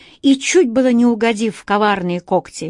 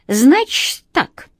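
sighing; 5 semitones higher, 4 dB louder, much slower than usual. A narrator's reading. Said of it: "вздохнул кот".

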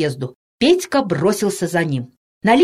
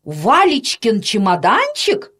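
gasping astonishment; 12 semitones higher than usual. A narrator's reading. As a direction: exclaim it in utter amazement. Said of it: "ахнула Анна Петровна". (ахнув от изумления)

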